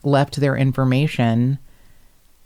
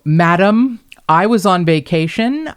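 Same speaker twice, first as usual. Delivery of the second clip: high, loud, protesting retort; investigator's retort; 4 semitones higher, 4 dB louder than usual. Retold or imitated. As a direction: explain yourself to an angry caller. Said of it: "pretty angry".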